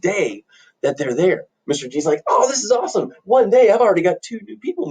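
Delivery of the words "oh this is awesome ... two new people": high, delighted exclamation; acted glee, pitched up; thrilled. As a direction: crow over a lucky day. Landlord thrilled with two new tenants.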